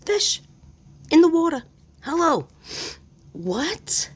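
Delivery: high, loud excited exclaims. Real, not acted. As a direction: call out each word, thrilled. Reacts excitedly to spirit box.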